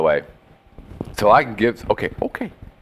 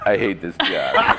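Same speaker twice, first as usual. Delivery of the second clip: grumpy monkey; 8 semitones lower, 4 dB quieter, slower than usual. Retold or imitated. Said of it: "the organ grinder monkey's like".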